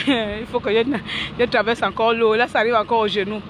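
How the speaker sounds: ordinary talk, nothing marked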